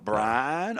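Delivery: southern-accented name. Shown as a demonstration. Host contrasting Brian with John, southern accent. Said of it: "Like John doesn't work in that name".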